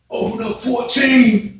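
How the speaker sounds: a defeated man asks for his cell; sad. Retold or imitated. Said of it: "That joint sound super sad".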